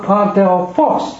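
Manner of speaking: adelphos with the accent on PHOS; stress on last syllable. Shown as a demonstration. Teacher showing students end accent, stressed PHOS in adelphos. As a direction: hit the final syllable of adelphos. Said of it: "它是最，最后一个".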